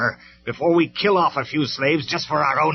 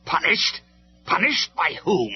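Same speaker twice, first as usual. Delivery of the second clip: much higher, louder, slow mocking disbelief; incredulous; 11 semitones higher, 8 dB louder, slower than usual. Megatron scoffs at Optimus's threat, in loud high disbelief. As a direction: scoff at the very idea. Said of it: "could hardly believe what he was hearing".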